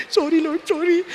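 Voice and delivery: laughing mock apology.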